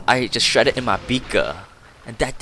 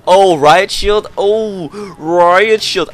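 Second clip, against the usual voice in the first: loud, high excited outburst; excited shout; 7 semitones higher, 10 dB louder, much slower than usual. Real, not acted. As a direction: shout like you just spotted it. Spotting an enemy weapon mid-game.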